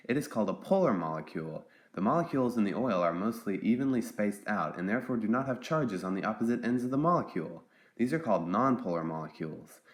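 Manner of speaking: ventriloquist voice, lips kept still; talking without moving lips. Pretend. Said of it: "I've learned to talk without moving my lips".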